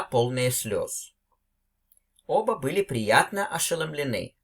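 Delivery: reading the story aloud to learners, voicing the two friends; lively read-aloud of a classic tale, quotes acted out lightly. Teacher reading a Chekhov story to her students, storytelling voice.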